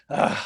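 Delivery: breathy groan of frustration; exasperated ugh. Retold or imitated. Retold exasperation while waiting for her.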